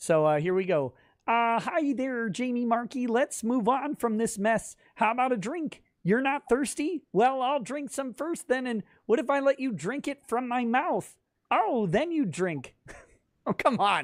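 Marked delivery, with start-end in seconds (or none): 1.6-12.7 put-on frog voice. You hesitate to read this one, but these are the rules: Kermit the Frog voice. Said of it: "say things in Kermit the Frog voice".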